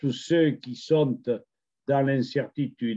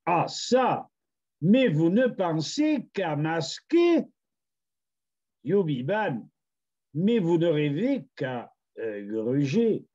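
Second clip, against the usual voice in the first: high, swooping theatrical verse; declaimed poem; 3 semitones higher than usual. Acted. Poet scolding those who govern, declaiming the verse. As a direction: declaim it with indignant flourish, pausing between phrases. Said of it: "nous allons vous le déclamer".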